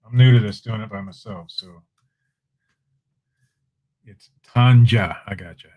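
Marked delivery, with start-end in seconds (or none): 4.0-5.2 "Tanja" said slowly with a J as in tangerine. Shown as a demonstration. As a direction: pronounce "Tanja" with the J sound, slowly. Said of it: "Is that a Tanja, as in tangerine?".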